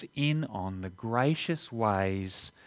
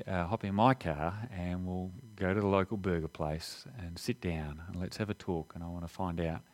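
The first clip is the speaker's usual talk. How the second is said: gracious neighbour; 3 semitones lower than usual. Pretend. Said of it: "you might say something like this".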